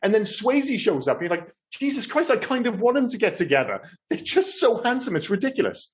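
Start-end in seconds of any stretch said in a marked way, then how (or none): 1.7-5.9 much higher, breathless gushing; gushing excitement. Retold or imitated. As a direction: swoon over them, voice way up. Retold gushing about handsome actors.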